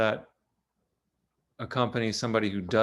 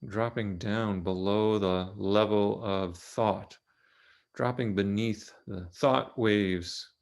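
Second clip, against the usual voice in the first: calm, unhurried guidance with long pauses; measured meditation-teacher delivery; guided meditation. Real, not acted. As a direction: ease listeners gently into the body, leaving long silences. Leads a guided body meditation.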